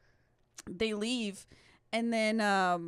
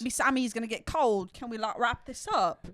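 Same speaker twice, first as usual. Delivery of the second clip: lightly impatient mock British voice; imitated British geezer; 3 dB louder than usual. Imitating the sandwich guy wanting to finish, mock British accent. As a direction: grumble in a put-on British accent. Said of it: "other guy's holding a sandwich".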